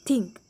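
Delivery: திங்க் with a pressed th; stressed th. Shown as a demonstration. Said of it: "அழுத்தி சொல்லுவோம்". (அழுத்தி உச்சரித்தல்)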